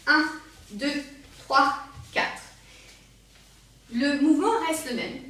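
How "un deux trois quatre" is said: punchy counting for a faster step; quicker count. Shown as a demonstration. Dance teacher trying the rapid version, quicker count. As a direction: count a slightly brisker beat. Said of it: "l'essayer en rapide".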